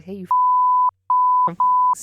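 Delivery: high, loud mock yell; mock yell at the dog. Telling the dog off at the crate: high mock yell. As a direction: scold the puppy in a high screech. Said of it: "be like".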